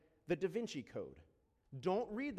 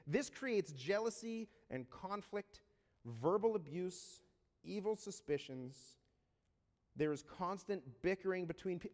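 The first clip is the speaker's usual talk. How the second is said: slowed, deliberate scripture read. Real, not acted. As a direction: drag the list out slowly. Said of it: "I'm gonna read it slow".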